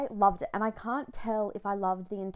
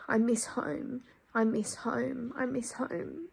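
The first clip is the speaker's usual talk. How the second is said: emotional reading; 2 semitones higher than usual. Acted. Vlogger reading the page that makes her cry, tearful reading. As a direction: read it as if it hurts. Reads final page, moved.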